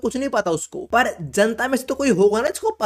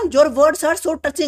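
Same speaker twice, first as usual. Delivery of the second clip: mock sweet reading; 6 semitones higher, much slower than usual. Mock-reading a sappy comment.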